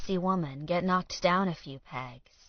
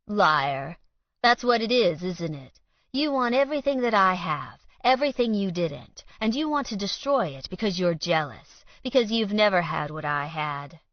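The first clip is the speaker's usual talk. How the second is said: angry accusation; 2 semitones higher, 5 dB louder than usual. Acted. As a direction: throw the accusation in his face. Alan accuses Colt.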